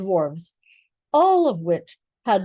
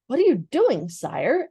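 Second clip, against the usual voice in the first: sharply; 4 semitones higher than usual. Acted. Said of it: "asked Jewel sharply".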